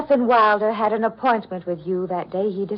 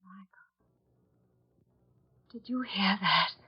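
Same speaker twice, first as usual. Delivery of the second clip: hushed whisper to her companion; whispering to Michael in disbelief; 4 dB quieter than usual. Acted. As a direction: breathe it so the doctor can't hear.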